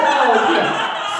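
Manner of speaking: loud, hammed-up baby sobbing. Shown as a demonstration. Demonstrating a party-game trigger to the audience, mock baby sobbing. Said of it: "start sobbing like a little baby".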